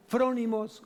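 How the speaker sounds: frónimos stressed on the first O, FRÓ-ni-mos; Greek word pronounced. Shown as a demonstration. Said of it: "acento en la O".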